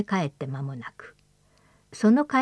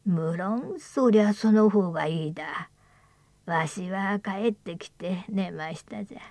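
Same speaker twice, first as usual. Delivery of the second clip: put-on creaky wise old man; 3 dB quieter than usual. Old man's lament.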